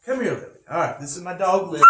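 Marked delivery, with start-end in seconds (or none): 0.1-0.6 high coaxing voice calling the dog over; sweet, high sing-song to coax the puppy; high-pitched dog call. Real, not acted. Teacher calling his dog Lily to come on camera, high and coaxing.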